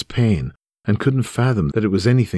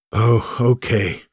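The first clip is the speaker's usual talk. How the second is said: stunned; 3 semitones higher, much slower than usual. Retold or imitated. Son stunned after the call.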